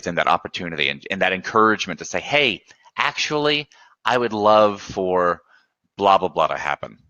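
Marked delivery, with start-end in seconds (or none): 2.2-7.0 lightly voiced happy customer. Webinar host voicing a satisfied customer's request, lightly mock eager. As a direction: play the pleased client, stretching it out.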